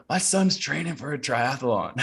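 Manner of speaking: high-pitched retold motherly announcement; boasting mom. Mom announcing bedridden son's training, proudly insistent. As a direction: imitate mom proudly telling the ward.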